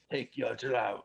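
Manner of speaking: slow orc order. Acted. Quotes the orc pouring the drink.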